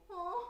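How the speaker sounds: small, high, soft teary aw; softly squeak, as if welling up; touched "aw". Real, not acted. Streamer moved by viewer's gift, touched. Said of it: "not crying".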